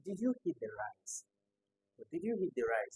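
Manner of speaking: "Did you eat the rice" as a yes-no question, tune lifted; rising intonation. Shown as a demonstration. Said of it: "the rising".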